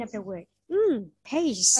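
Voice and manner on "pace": "pace" said louder with a long final s. Shown as a demonstration. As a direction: model "pace", holding the closing s. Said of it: "similarly, C E at the end". (đọc mẫu "pace", kéo rõ âm s cuối)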